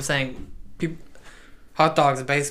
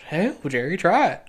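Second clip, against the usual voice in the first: put-on a failed stab at a New England accent, rising at the end; hammed-up New England accent; bad New England accent; 4 semitones higher than usual. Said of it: "not a very New England accent".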